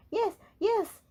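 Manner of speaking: high, loud panicky cry; a high, loud panicked yes. Acted. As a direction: blurt it out in a panic. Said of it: "he cried in a panic".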